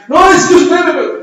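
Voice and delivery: put-on high, loud whiny teen insisting; high and loud, a frightened young man on a motorbike; panicky young biker. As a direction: play the frightened kid who keeps repeating himself. Scared biker repeats himself.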